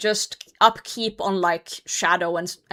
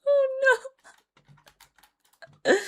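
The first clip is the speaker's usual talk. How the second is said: high squeaky oh of dismay; mock dismay. Mocking people's reaction to the mode, mock dismay. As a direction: gasp like it's a disaster.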